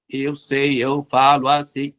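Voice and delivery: lightly robotic, slow and monotone; a hint of a machine voice, slowed down. Shown as a demonstration. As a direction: speak like a flat AI with no intonation. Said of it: "eu falaria igual uma I A, um robô".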